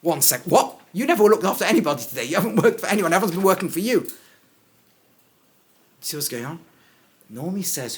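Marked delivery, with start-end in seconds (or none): 0.0-4.1 incredulous objection. Acted.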